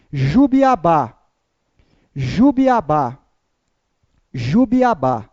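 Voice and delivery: slow, spelled-out syllables for the class to echo; slow drill. Shown as a demonstration. Teacher drilling a word for students, slowly. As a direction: drag each syllable so they can repeat. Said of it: "Vocês vão repetir três vezes".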